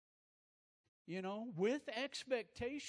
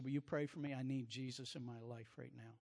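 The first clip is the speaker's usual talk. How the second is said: tearful plea; 5 semitones lower, 3 dB quieter than usual. Retold or imitated. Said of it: "this guy is bawling".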